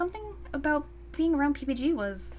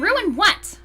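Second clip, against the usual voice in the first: baffled protest; 6 semitones higher, 9 dB louder than usual. Acted. Blindfolded, baffled.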